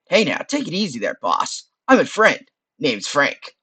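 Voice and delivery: nasal skull voice. Acted. Skull introducing himself to the adventurer, nasal voice. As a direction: talk through the nose, easygoing. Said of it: "says a nasal voice".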